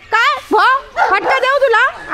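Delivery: slow, high threatening question; mock threat. Real, not acted. Owner warning her dog of a smack, slow high mock threat. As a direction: drag it out like a warning to a naughty dog.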